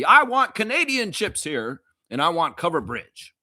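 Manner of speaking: insistent high demand at the store. Pretend. Fan demanding Canadian chips from the grocer, insistent. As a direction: demand it loudly from the clerk. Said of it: "demand them. Say".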